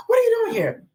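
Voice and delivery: mock angry wife. The wife confronting them.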